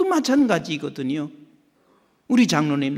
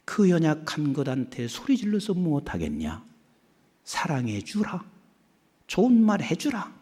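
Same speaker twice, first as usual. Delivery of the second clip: gentle divine voice; 4 dB quieter than usual. Retold or imitated. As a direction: plead for love softly. God's voice quoted.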